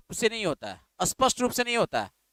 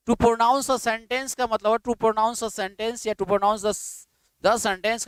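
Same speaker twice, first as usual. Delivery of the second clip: slow dictation; much slower than usual. Shown as a demonstration. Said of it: "teacher dictating phrase".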